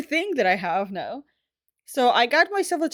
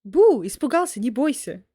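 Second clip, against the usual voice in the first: playful spooky meme voice; 4 dB louder than usual. Pretend. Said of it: "need to do, like, a meme like that".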